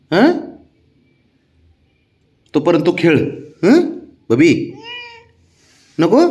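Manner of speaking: high, sing-song coaxing to a pet. Real, not acted. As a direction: sweet-talk the sulking dog. Coaxing pet before leaving.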